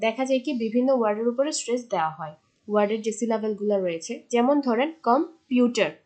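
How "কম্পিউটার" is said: কম্পিউটার with the পিউ pushed harder; stress on second syllable. Shown as a demonstration. Teacher demonstrating word stress, stressed পিউ in কম্পিউটার. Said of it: "পি রূপকে একটু জোর দিয়ে বলা হয়".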